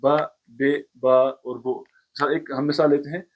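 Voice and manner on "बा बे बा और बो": बा बे बा बो spelled out one by one, each short and clear; name each letter sound separately: बा, बे, बो; teacher sounding out बा बे बा बो; sound demo. Shown as a demonstration. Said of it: "हाय मुख्तफी इसको कहते हैं".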